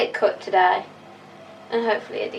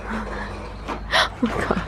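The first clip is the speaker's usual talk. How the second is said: laughing; much slower than usual. Real, not acted. Cracking up at the cut.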